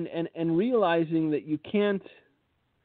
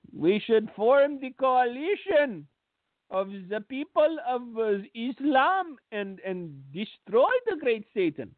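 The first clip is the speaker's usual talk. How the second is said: put-on Jewish accent; 5 semitones higher than usual. Mocking the Turkish leader's call for an Islamic coalition, in a light Jewish accent. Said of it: "I said that with a Jewish accent".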